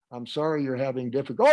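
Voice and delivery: quick, neutral apology. Shown as a demonstration. Answering an upset customer, very neutral apology. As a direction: apologise without any emotional energy. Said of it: "when you're very neutral".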